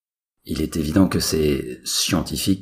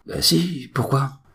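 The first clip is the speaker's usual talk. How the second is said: whiny son; 12 semitones higher, slower than usual. Acted. Son answers his father.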